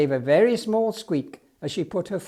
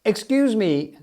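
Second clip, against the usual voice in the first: a louder call to the crowd; shouted; 4 semitones higher, 5 dB louder than usual. Acted. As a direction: call out across the square. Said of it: "shouted Charlie Banger".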